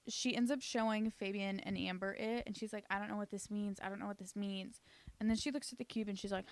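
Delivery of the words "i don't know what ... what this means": quiet bafflement. Retold or imitated. Nina baffled, repeating herself.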